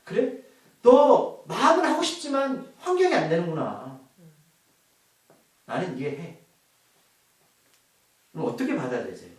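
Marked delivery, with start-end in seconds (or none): 0.0-6.4 slow, softening to a hush at the end; 이해하는 하나님의 부드러운 말투; God's gentle understanding. Acted. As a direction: comfort the struggling one like a kind father. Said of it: "이렇게 보시는 게 아니라".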